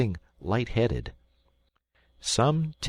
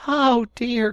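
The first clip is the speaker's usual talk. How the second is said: higher, louder second cry; even more exasperated; deeper despair; 6 dB louder than usual. Acted. Rat despairing again at Mole. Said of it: "cried the Rat, in despair".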